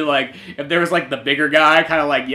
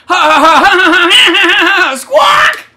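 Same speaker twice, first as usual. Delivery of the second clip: high, loud squawking cackle; cackling rooster laugh; 12 dB louder, slower than usual. Acted. The Derpy Boys laughing hardcore, a squawking high cackle. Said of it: "It's just like".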